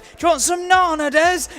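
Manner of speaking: put-on high, sing-song baby talk. To Des, offering nana like to a baby, high baby talk. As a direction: talk to him like a toddler. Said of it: "talking to me like I'm a baby".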